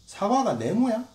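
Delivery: rising to a high, loud jeer; hammed-up scornful yell; mocking outrage. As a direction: ridicule the drawing, building up. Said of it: "하면서 막".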